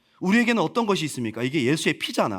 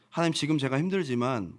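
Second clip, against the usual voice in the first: 믿음의 선포; 3 semitones higher than usual. Acted. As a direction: start subdued, then declare it with rising force. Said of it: "막 선포하는 거야". (점점 고조되는 믿음의 선포)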